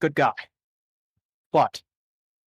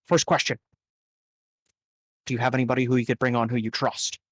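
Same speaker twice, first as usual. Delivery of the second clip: lightly voiced boss, softer; boss NPC; 3 semitones lower, 4 dB quieter, faster than usual. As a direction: lay out the job calmly. Boss NPC gives the job.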